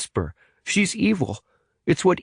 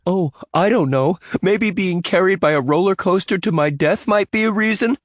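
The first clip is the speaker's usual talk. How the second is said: put-on much higher, sarcastic teen snap; scared boy snapping at a friend; snapped; 13 semitones higher, 3 dB louder than usual. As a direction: spit the sarcasm back. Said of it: "snapped Evan".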